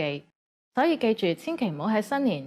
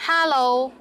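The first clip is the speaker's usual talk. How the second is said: Cantonese accent; 4 semitones higher, 5 dB louder than usual. Shown as a demonstration. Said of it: "but with a Cantonese accent".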